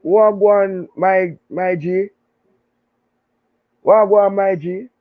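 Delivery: casual greeting. Retold or imitated. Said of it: "call ... and say".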